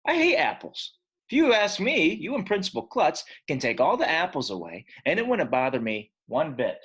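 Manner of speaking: loud, high protest; defiant outburst. Acted. AJ blurting at the teacher, loud and high. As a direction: shout it like a fed-up kid. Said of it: "I said".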